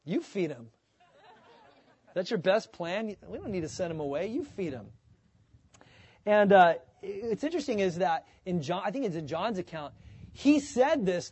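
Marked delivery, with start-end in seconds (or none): 0.0-4.9 laughing Jesus take. Shown as a demonstration. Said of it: "Or if it was like".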